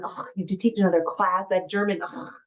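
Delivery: mock weary grumble with sighed ughs; put-upon groaning, lightly mimicked; long-suffering sighs. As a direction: imitate a husband sighing in complaint. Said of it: "No more long drawn out sighs".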